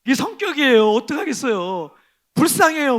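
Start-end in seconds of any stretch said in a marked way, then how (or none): 2.4-3.0 high, loud pitiful cry; loud half-joking lament; mock lament. Real, not acted. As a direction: wail it in playful self-pity. Exclaims self-pity humorously.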